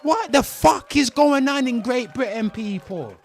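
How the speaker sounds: venting fury at a lenient sentence; getting mad. Real, not acted. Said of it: "I'm getting mad".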